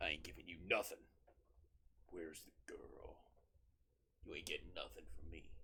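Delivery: groggy, drowsy voice. Voicing one of the guys who refuses to give anything up, groggly voice. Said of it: "Every like guy has like a groggly voice".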